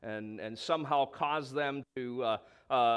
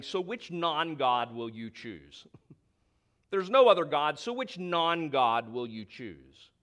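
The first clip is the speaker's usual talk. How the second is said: sarcastic; 5 dB louder than usual. Retold or imitated. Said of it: "You can sense the sarcasm".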